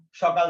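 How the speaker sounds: সকাল said with a doubled k; emphatic double k inside সকাল; doubled consonant. Shown as a demonstration. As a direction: lengthen the k in সকাল: shok-kal. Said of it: "একটা শব্দকে জোর দিয়ে উচ্চারণ করার জন্য".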